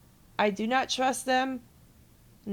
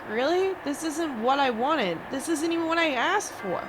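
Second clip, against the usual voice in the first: higher, exasperated retold disbelief; incredulous; 4 semitones higher than usual. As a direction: let disbelief pitch the voice up. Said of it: "And I'm like".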